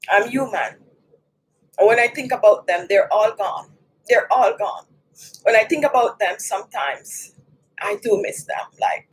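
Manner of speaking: low, subdued grief; choked up after crying. Real, not acted. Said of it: "I am not the one to cry like that".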